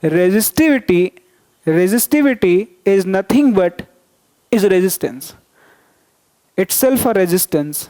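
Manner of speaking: slow, deliberate restatement, word by word; slow repeat for students. Shown as a demonstration. Teacher repeating the definition to students, slow and deliberate. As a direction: spell it out slowly so the class catches it. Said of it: "फिर से सुन लो".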